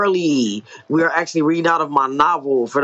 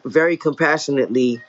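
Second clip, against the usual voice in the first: story narration. A narrator's reading. Author reading own novel to listeners, measured story narration. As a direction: read it as an author narrating dialogue and action.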